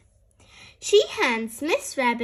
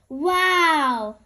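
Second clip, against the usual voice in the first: a bright louder wow; louder, amazed child; 3 semitones higher, 5 dB louder than usual. Acted. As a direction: call it out with wonder. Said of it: "says Peppa loudly".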